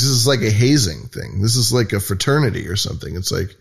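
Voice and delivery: ordinary talk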